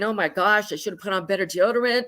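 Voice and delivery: rushed, nervous backstage worry, fast; panicky. Retold or imitated. Nervous award winner backstage worrying about sweat, fast and panicky. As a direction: blurt it out like a jittery award winner. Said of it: "you're a little panicky".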